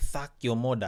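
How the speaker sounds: put-on Jamaican patois accent with a lisp. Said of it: "it's gonna come out and it'll be like".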